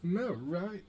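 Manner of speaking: high, incredulous question; disbelieving rise; surprised. Real, not acted. Surprised disbelief at game event.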